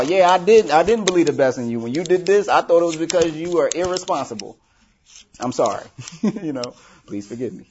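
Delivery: loud, earnest acted apology; playing out a heartfelt confession; mock confession. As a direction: own up to it out loud.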